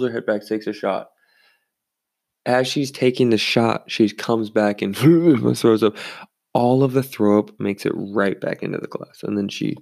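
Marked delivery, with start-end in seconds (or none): 5.0-5.5 loud, higher-pitched retching imitation; short mock puke sound; imitated vomiting noise. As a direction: act out throwing up. Imitates woman throwing up.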